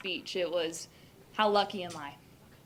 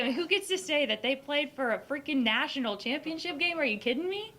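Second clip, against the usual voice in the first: excited; 6 semitones higher than usual. Real, not acted. Disbelieving brag about championship.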